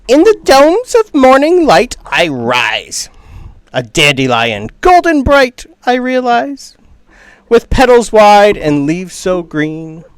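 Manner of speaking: high, slow declaiming little creature; tiny weird voice. Acted. Tiny dandelion reciting its song to passing travelers, in a weird little voice. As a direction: proclaim it slowly in a weird little voice. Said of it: "this is a tiny little weird voice".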